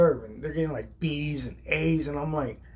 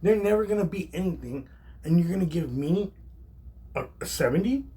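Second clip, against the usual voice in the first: retold argument, incredulous at the grade; getting mad; 3 semitones higher than usual. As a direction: argue it's unfair, pitch lifted. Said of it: "starting to get loud with Chef Damiano".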